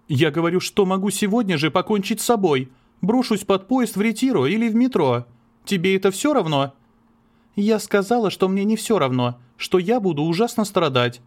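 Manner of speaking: lightly voiced anguished dialogue; voiced quarrel. (напряжённый спор влюблённых)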